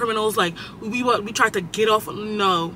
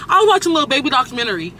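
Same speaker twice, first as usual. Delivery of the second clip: stern, fast, serious announcement; 4 semitones higher, 3 dB louder, faster than usual. Shown as a demonstration. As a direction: say it like a strict teacher. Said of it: "saying it all stern".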